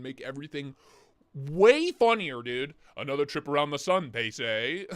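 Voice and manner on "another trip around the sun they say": lightly mimicked goofy British robot reading; imitating British TTS. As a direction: parrot the text-to-speech voice's goofy tune. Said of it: "His intonation's so goofy".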